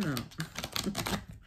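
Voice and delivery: real laugh at her own English accent; amused laugh. Real, not acted. Reader laughs at her own English accent, amused. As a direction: laugh at yourself after showing off.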